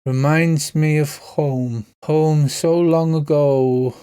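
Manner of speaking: put-on slow, slurred, wistful drunk; drunken knight. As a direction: linger on each word like a drunk lost in memory. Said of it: "the knight in his drunken voice says".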